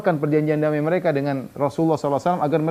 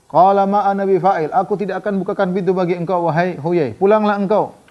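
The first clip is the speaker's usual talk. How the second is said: firm refusal; 4 semitones higher, 3 dB louder than usual. Retold or imitated. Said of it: "Ka'ab refusing again".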